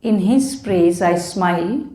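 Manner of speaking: slow, measured poetry reading with pauses; poem recital. Acted. Poet sharing offerings to Lord Ganesha, slow recital. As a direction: recite devotional verse slowly, phrase by phrase. Reads own devotional poems aloud.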